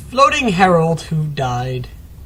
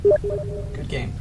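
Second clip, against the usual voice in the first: very high, squeaky silly voice; goofy high voice. Real, not acted. Caster reading the screen in a goofy squeak. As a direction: squeak it like a cartoon.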